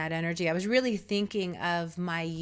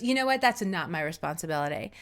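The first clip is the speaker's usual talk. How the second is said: mild defensive retort; faster than usual. Retold or imitated. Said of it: "his whole defensive thing".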